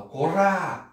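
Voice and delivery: "Korá" called high with an attempted rolled R; trilled R. Shown as a demonstration. Teacher attempting the tongue trill, high "Korá" with rolled R. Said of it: "eles trepidam a língua aqui em cima".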